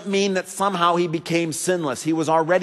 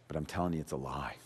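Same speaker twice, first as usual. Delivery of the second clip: much softer and lower, gentle and close; quiet tender sermon; 17 dB quieter, faster than usual. Acted. Pastor voices Jesus comforting the fearful, soft and low. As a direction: lean in and console a frightened listener.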